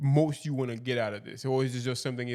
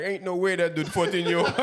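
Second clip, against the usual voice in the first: higher, louder, breaking into a laugh; amused disbelief; 7 semitones higher, 7 dB louder than usual. Retold or imitated. Interviewer imitates other parents seeing the boy, laughing disbelief. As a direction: imitate incredulous parents while starting to laugh.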